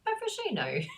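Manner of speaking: high-pitched fake English accent; mock English accent. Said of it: "What is the English accent?".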